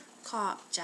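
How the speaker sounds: slow, drawn-out "ขอบใจ". Shown as a demonstration. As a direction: stretch both words for the learner. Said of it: "a little bit slower".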